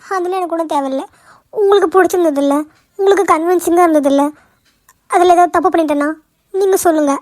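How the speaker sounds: mildly tearful insistence. Acted. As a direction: press for approval, a touch weepy. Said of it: "நீ முதல்ல அழுகிறத நிப்பாட்டு".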